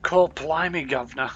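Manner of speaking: put-on a light, casual Cockney-style London accent; understated stock London accent; mock London accent. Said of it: "where that accent is from".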